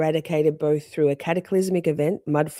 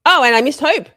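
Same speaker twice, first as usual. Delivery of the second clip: sudden higher, louder outburst; real yelling; 9 semitones higher, 8 dB louder than usual. Real, not acted. Streamer noticing a missed comment from a viewer, yelling. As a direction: yell it out on realizing the slip. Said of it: "sorry for yelling in there".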